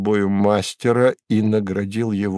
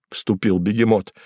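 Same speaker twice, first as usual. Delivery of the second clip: usual speaking voice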